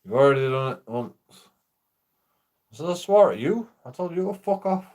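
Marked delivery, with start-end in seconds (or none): 2.9-4.9 much higher, incredulous protest; indignant retort. Retold or imitated. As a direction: throw it back in disbelief.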